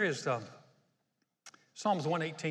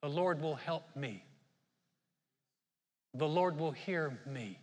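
hesitant; slower than usual. Shown as a demonstration. Preacher showing how doubtful people mumble the words, hesitant. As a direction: say it as if you barely dare. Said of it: "People are hesitant to say those words".

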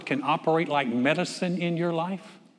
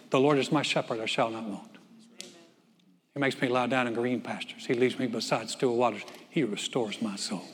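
soft recitation; 4 semitones lower, 5 dB quieter than usual. Real, not acted. Quoting Psalm 23 softly.

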